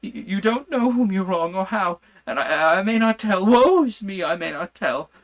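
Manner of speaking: high, loud frantic begging; a madman begging on his knees for release; desperate pleading. A narrator's reading. Madman on his knees begging the doctor to free him, frantic high pleas. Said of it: "poured forth a torrent of entreaty, with tears rolling".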